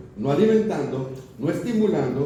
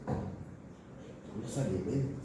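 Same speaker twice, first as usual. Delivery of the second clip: repeated far softer and very slowly, almost to herself; 5 semitones lower, 13 dB quieter, much slower than usual. Shown as a demonstration. Preacher telling the congregation not to feed sin, very slow and hushed. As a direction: let the warning sink in, drawn out and hushed. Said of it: "hábitos, no los alimentes".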